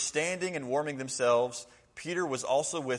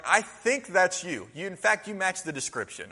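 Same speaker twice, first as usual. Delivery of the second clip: suspicious relative; 6 semitones higher, 4 dB louder than usual. Retold or imitated. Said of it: "It's like".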